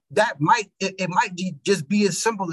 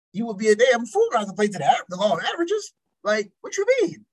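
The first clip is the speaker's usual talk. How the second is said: higher-pitched mock disbelief; incredulous protest; 5 semitones higher than usual. Arguing his dating odds to a critic, incredulous. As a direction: pitch leaps up in baffled protest.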